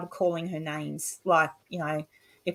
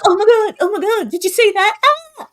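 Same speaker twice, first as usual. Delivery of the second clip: much higher, louder frantic squealing; panicky ghost hunter; 12 semitones higher, 8 dB louder than usual. Retold or imitated. Mocking a jumpy ghost hunter reacting to something, high frantic squeals. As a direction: freak out over every noise, hammed-up. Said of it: "if you're watching someone else".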